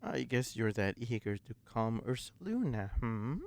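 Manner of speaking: soft, lightly voiced stubborn old woman. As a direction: read her lines quietly, a bit gruff.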